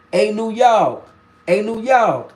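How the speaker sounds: imitated Southern woman calling out; down south accent. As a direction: call out with a Southern drawl. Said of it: "introductions to a down south accent".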